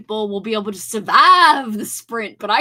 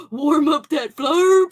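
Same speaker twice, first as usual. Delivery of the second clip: slow, laughing gasp; 3 semitones higher, 6 dB louder, slower than usual. Real, not acted. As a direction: laugh through the words. Gasping laugh at the flarp.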